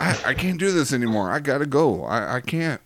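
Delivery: desperate prodigal son. Retold or imitated. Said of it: "he says".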